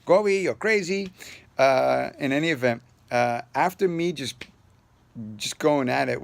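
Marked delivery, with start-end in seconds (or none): 0.0-1.1 high, loud imitation of a Spanish accent; light Spanish-accented tease. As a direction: mimic a friend's Spanish accent, playfully. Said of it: "so it was more like".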